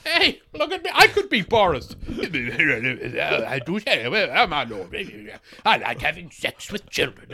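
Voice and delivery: a hammed-up fake Boris, laughing; comic lookalike voice; bad Boris lookalike. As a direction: ham the lookalike, giggling. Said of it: "chubby guy who can do a funny accent".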